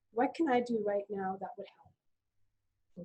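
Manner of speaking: slow, gentle, at eye level; calm caring nurse at eye level; engaged and calm. Shown as a demonstration. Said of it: "at eye level".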